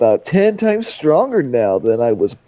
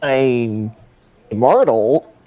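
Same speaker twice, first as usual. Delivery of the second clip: ordinary talk, nothing marked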